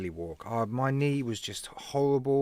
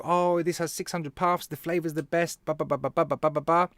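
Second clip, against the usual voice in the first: mocking sales patter. Sellers giving the usual spiel, mocked. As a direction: parrot the same old pitch. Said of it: "they'll give you the usual".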